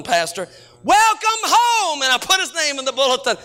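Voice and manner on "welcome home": slow, much higher welcome; welcoming. Retold or imitated. Bulletin greeting to a paroled kid, slow and welcoming. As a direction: greet him home gently and slowly. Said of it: "I printed his name in the bulletin".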